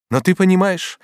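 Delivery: high, loud solemn declaration. A narrator's reading. Feverish Batilda continues to Bonifas, solemn. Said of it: "продолжала Батильда торжественно".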